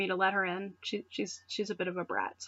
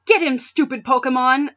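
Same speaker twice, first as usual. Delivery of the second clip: disrespectful; 3 semitones higher, 8 dB louder than usual. Acted. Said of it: "being disrespectful".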